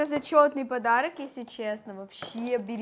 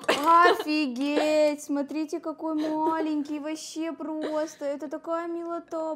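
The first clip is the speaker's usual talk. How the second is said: excited anime fan; 3 semitones higher, 4 dB louder, slower than usual. Real, not acted. Cooing over tiny baby doll.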